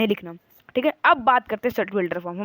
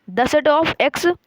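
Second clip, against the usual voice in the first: "The set of X" drawn out very slowly, a little higher and louder; slowly read out; 5 semitones higher, 4 dB louder, much slower than usual. Shown as a demonstration. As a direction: read every word of "The set of X" slowly and clearly for the class. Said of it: "इसको बोलना है".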